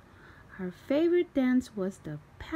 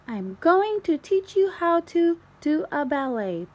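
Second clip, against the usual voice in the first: higher, louder proud announcement; Peppa announcing; 8 semitones higher, 5 dB louder than usual. A narrator's reading. Peppa announces proudly to her family, higher and louder. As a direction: proudly declare it.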